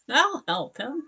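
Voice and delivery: lightly voiced rescuer, high and slow; eager rescuer. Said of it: "you're the kind that goes".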